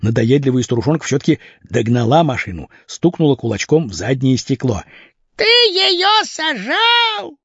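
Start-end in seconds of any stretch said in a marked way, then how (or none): 5.3-7.4 put-on very high, slow shrieking old woman; an old lady chasing the car, screaming; high, stretched old woman's cry; old woman yelling. A narrator's reading. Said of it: "кричала она".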